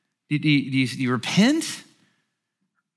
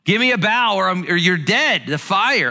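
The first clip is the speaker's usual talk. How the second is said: king's threat; 3 semitones higher, 3 dB louder than usual. Retold or imitated. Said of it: "Nebuchadnezzar brings him in and he says".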